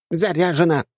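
put-on high, squeaky girlish chatter; squeaky dryad. Dryad loader reports.

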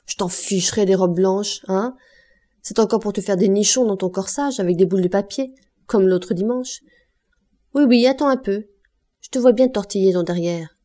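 mock her mercilessly, slurring with menace; drunken taunting. Drunk father taunting his daughter about her white dress, jeering. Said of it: "Il lui parlait dans le cou".

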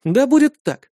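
high, loud ringing declaration; firm acceptance. A narrator's reading. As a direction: seal the duel boldly. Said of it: "кивнул я".

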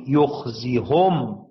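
يخزيهم drawn out, with a long final م; teacher drills the word for the class; slow demo word. Shown as a demonstration. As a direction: say يخزيهم slowly and carefully. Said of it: "من الذي يضم".

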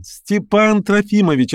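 put-on a girl delighted to spot an old friend; young girl's voice. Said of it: "свежий, резвый, юный голос". (юный звонкий голос, радостно зовёт)

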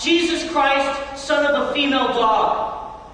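slow, stretched mock yell of a curse; half-hearted imitation of a furious yell; retold golfer's curse. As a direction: act out the golfer shouting after a bad slice. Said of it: "he screamed out as loud as he could".

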